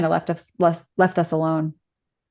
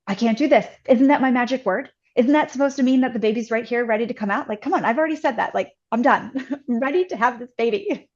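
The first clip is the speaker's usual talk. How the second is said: mock exasperated protest, pitched up; higher-pitched, half-laughing complaint; retold frustration; 5 semitones higher, faster than usual. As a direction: re-enact being fed up, lightly. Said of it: "I was just getting frustrated".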